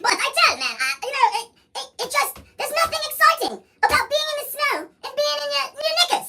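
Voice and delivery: laughing while talking. Real, not acted. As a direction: laughs through the words. Laughing high through the rant.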